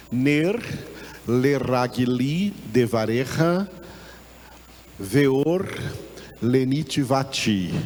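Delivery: slowly sounding out the Hebrew verse; Hebrew reading. Shown as a demonstration. Teacher reads the Hebrew verse to the class, syllable by syllable. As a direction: read each Hebrew word carefully, pausing between them. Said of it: "No hebraico tá escrito aí desse jeito aí".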